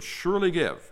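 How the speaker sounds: "surely" given emphatic weight before "give"; stress on SURELY. Shown as a demonstration. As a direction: lean hard on "surely". Demonstrates Hebrew emphatic verb.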